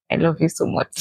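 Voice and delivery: tender, whispered. Real, not acted. Tender declaration to husband.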